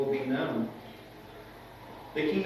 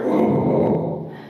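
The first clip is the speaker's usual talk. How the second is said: breathy startled whoas at thunder; mock jump at a thunderclap; 4 dB louder, slower than usual. Preacher acting out fear of thunder for the congregation, startled.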